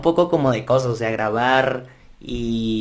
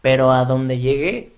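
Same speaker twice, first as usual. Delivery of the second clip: voice cracking; 4 dB louder than usual. Real, not acted. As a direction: voice cracks on the rising end. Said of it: "Me salió un gallo". (se le quiebra la voz)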